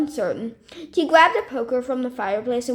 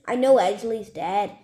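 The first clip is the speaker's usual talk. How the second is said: snapped. Acted. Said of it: "snapped the man".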